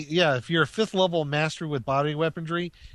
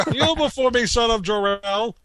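high, loud, imperious command; commanding villain voice; 6 semitones higher, 4 dB louder than usual. Retold or imitated. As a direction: demand he kneel. Superman villain quote.

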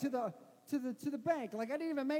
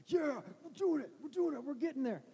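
pumped-up self-talk; 4 semitones higher than usual. Retold or imitated. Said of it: "I'm like".

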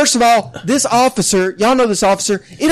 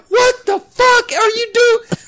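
mock disbelief; 12 semitones higher, slower than usual. Shocked at friend.

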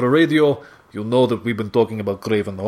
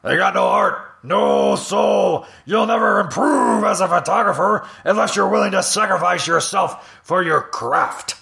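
higher, shouting newspaper boss; Jonah Jameson; 8 semitones higher than usual. Acted. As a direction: bark at the photographer like a gruff editor. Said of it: "Jonah Jameson being like".

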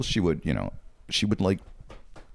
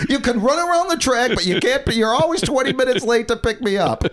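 high, louder mock-mom nag; mother scolding; 4 dB louder than usual. Mother nagging her star son about lateness. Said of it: "his mother would routinely ask him".

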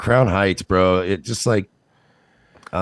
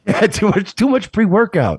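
higher Boston tough-guy voice, worried; a concerned neighbor in a Boston accent; concerned Mark Wahlberg; 8 semitones higher than usual. Acted. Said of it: "impression of a concerned citizen Mark Wahlberg".

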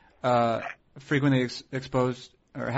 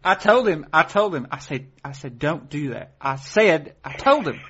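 Southern woman voice. Pretend. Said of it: "I was kinda doing a woman".

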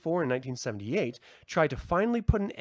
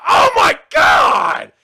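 much higher, much louder, slow startled shout; startled scream; 14 dB louder, much slower than usual. Retold or imitated. Reliving screaming into his wife's ear during the movie, loud startled shout. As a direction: scream it out like a jump scare just got you. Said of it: "I was just like".

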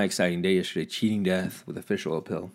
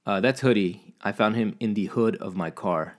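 normal talking voice

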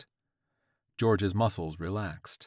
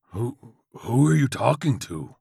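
stammering, raised, loud question; frightened bewilderment; 4 semitones higher, 7 dB louder than usual. Acted. Old man questions crazed George, frightened stammer. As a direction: stumble on the first word in alarm.

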